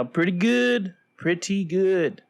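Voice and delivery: slow, measured anchorman delivery; newscaster voice. Pretend. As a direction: read it like the evening news. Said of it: "You said it like a newscaster there".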